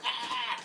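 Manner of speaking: held-back high "ah" scream; mock scream. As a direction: imitate a viewer screaming at the screen. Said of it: "screaming at their monitor".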